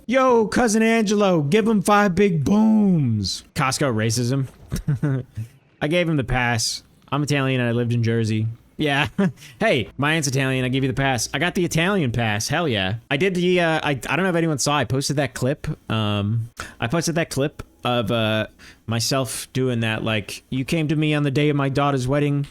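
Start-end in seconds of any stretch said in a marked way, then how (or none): 0.0-3.4 high, hollered hype voice; Costco guys impression. Parodying Costco guys to chat, high hyped-up call. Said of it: "I'm referencing the Costco guys". 20.5-22.4 lightly put-on Italian mobster accent; quick, half-hearted mock Italian accent; bad Italian accent. Recalling own posted clip, badly faked Italian accent. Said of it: "the worst Italian accent ever".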